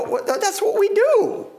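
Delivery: a lightly voiced, high, defensive protest; indignant leaders. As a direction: play the offended temple leaders, mildly hammed-up. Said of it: "they go".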